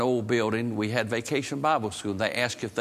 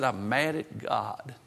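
sullen confession; 3 dB quieter, slower than usual. Retold or imitated. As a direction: let it out slowly and heavily. Boy's reluctant confession, retold.

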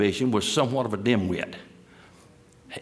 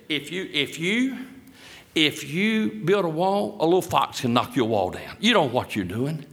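mocking. Preacher imitates enemies making fun of the wall builders, mocking. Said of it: "made fun of him".

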